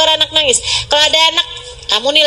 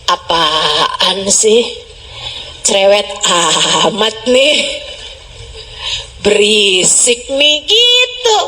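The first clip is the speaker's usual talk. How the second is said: annoyed; 5 semitones lower, slower than usual. Acted. Mock annoyance at the droned prayer.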